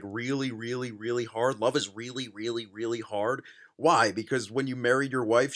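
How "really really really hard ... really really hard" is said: low, soft run of "really, really, really"; mocking repeat. Reader echoing the author's love line, low mocking repeat. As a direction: repeat "really" under your voice, lower and quieter. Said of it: "He puts so much emphasis on the word really".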